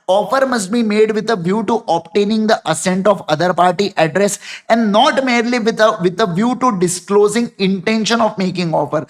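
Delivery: measured, word by word; slow dictation. Shown as a demonstration. Teacher reading the definition aloud for notes, slow. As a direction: dictate it steadily for writing.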